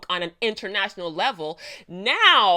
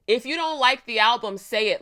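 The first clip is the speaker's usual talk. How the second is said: louder, punching the line; emphatic; 3 semitones higher, 6 dB louder than usual. Real, not acted. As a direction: say it with your full chest. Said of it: "with your full fucking chest".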